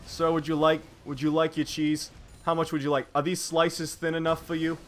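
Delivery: put-on a light New York deli-man accent as the Dalai Lama; lightly voiced Dalai Lama in a New York accent serving cheese. Co-caster jokes the Dalai Lama runs a deli, light New York accent. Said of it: "I don't know why he has a New York accent".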